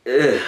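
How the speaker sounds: short groan of distaste; disgusted ugh. Real, not acted. Reviewer recalling a film he didn't like, disgusted groan. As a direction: let out a grossed-out "ugh".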